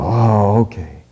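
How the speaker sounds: meek, sheepish little okay; sheepish son. Retold or imitated. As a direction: mumble it like a caught kid. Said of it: "Look down kinda sheepishly".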